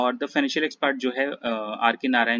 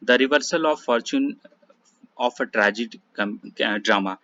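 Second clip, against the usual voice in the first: slow dictation; much slower than usual. Shown as a demonstration. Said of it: "reads question slowly".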